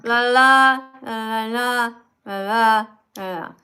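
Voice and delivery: singsong parody of a bored reading; mocking la la la. Teacher mocks the caller's reading as mindless la la. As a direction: mimic a rushed, careless read with la la. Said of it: "Here's what I heard".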